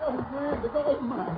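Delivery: high, delighted calling out; thrilled he's back, voice lifted; excited. Acted. Overjoyed at mouse's return.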